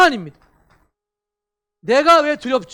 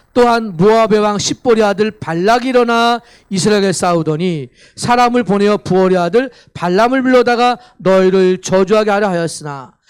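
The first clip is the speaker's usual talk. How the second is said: solemn scripture reading; 3 semitones lower, 5 dB louder than usual. Acted.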